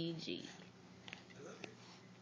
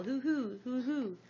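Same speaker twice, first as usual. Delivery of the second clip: owl hoot; 4 semitones higher than usual. Shown as a demonstration. Reading to a child, hooting like an owl. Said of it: "like an owl".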